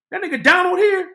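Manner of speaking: high put-on white guy voice; white boy voice. White boy voiced confronting girl.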